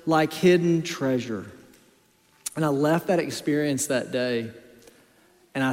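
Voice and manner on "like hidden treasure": lifted, fervent sermon voice; raised pulpit delivery; preaching. Acted. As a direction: preach it out to the room, full conviction. Preaching on Proverbs.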